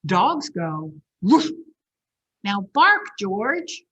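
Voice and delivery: slow, loud, drawn-out lesson; patient mother teaching. Acted. Mother slowly teaching George the sounds, patient and loud. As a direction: spell it out slowly for the pup. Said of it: "said George's mother".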